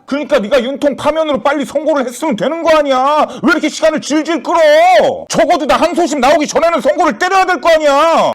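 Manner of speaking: high, insistent complaint; angry reproach. Acted. Caller blaming the judge for dragging out the ruling, angry. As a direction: push the blame back, pitch held high. Blames friend for delaying ruling.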